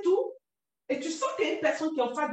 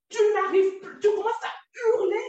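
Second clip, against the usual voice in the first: speaking loudly; 5 semitones higher, 5 dB louder than usual. Real, not acted. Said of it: "excuse-moi quand je parle fort".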